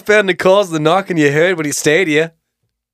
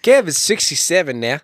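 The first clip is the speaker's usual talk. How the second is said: put-on young Australian accent. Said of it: "Now you're a younger Australian".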